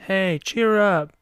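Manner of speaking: put-on high, slow girlfriend voice; mock cheering-up. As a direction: coax him along in a high, drawn-out voice. Imitating girlfriend cheering him up.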